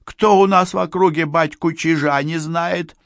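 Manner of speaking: high, cringing character voice; humbled, high-pitched grovelling; servile beekeeper. A narrator's reading. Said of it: "униженно бормотал пасечник".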